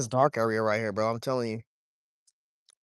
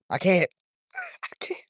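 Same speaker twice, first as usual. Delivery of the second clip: squeaky high laugh through the words; cracking up, giving up; laughing helplessly; 6 semitones higher than usual. Real, not acted. Laughing at failed attempts.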